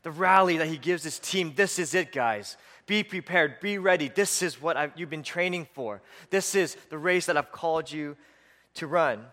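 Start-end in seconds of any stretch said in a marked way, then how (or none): 1.6-9.3 lightly voiced pre-game pep talk; a hint of a coach rallying players. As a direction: urge the team on, mildly acted. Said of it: "like the rally that the coach gives".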